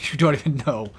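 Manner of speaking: laughing through the words. Shown as a demonstration. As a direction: laugh as you say it.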